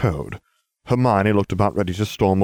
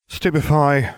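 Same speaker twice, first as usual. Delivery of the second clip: higher, smug drawl; drawled spell; 8 semitones higher, 4 dB louder than usual. A narrator's reading. Harry casts a spell on Cerberus, drawling smugly. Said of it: "I drawled".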